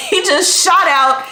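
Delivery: a giggle as the words spill out; laughing. Real, not acted. Repeat said while laughing.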